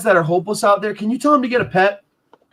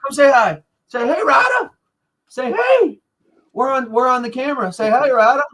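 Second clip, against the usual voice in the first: coaxing the dog; 4 semitones higher than usual. Real, not acted.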